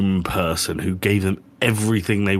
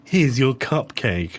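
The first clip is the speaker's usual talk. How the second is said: imitating the voice; 3 semitones higher, slower than usual.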